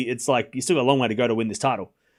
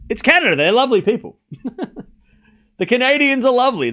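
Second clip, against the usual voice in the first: excited gushing; 10 semitones higher, 5 dB louder than usual. Real, not acted. Gushing about Canadian crowd.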